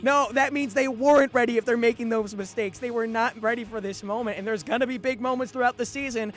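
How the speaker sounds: loud, high-pitched, heated pushback; fired up. Real, not acted. Sports host rejects co-host's call to calm down, fired up. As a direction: argue it loudly, all worked up. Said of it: "I'm fired up".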